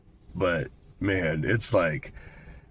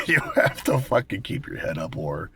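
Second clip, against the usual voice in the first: laughing; 3 semitones higher than usual. Real, not acted. Laugh heard on line.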